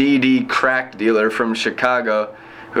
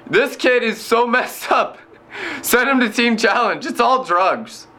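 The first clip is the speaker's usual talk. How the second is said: mock officials' verdict; 10 semitones higher than usual. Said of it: "and they said".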